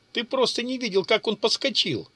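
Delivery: high, groaning through laughter; стон от смеха. A narrator's reading. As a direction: moan it out, weak with laughing. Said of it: "простонал боец". (простонать сквозь смех)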